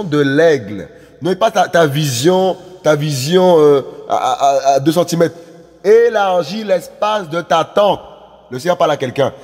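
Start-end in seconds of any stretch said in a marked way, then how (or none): 5.8-8.0 slow, stretched-out exhortation; drawn-out prophetic call; preaching proclamation. Real, not acted. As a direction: proclaim it slowly to the congregation.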